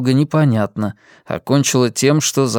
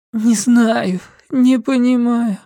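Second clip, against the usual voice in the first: higher woman's voice, into the pillow; Linda, muffled; 10 semitones higher, slower than usual. A narrator's reading. Linda answers her son lying face down, muffled. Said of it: "Трудно было разобрать её слова".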